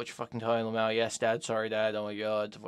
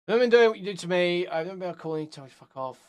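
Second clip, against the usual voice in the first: mock whiny voice; 5 semitones higher, 4 dB louder, faster than usual. Higher voice reading messages.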